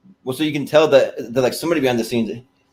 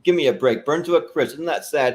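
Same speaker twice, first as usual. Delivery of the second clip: Ed Grimley lament; 3 semitones higher than usual. Retold or imitated. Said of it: "He's like".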